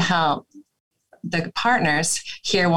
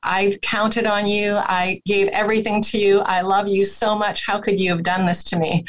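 proxy voice of hurt partner; 2 semitones higher than usual. Shown as a demonstration. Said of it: "proxy voice".

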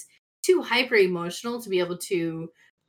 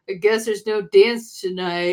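mock sad; 5 dB louder than usual. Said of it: "slouched over a chair just like".

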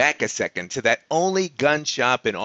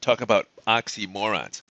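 "oxymorons" with the weight on "morons"; stress on "moron"; 2 semitones lower than usual. Real, not acted. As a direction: lean on the "morons" part of "oxymorons". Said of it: "Emphasis on the moron".

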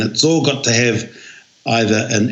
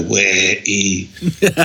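We i with a laugh of distaste; a disgusted We i through a laugh; 3 semitones lower than usual. Shown as a demonstration. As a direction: say We i as if put off. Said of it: "a bit disgusted or put off by, you can go".

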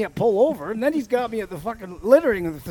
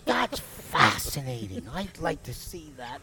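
dry sarcasm; 8 semitones lower, 7 dB quieter, slower than usual. Retold or imitated. Sarcastic reply retold.

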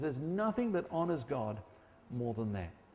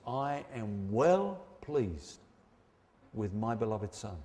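voice of God; 5 semitones lower, slower than usual. Acted. Voice from heaven speaking.

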